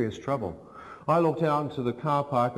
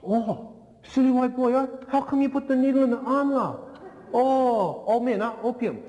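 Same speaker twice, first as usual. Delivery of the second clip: mocking young man; 11 semitones higher than usual. Young hotel owner scolds the stung tourist, very high mocking voice. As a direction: squeal it high, scolding a fool.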